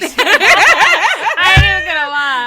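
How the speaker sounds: laughing loudly through words. Real, not acted. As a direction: crack up while saying it. Laughing reaction to accent.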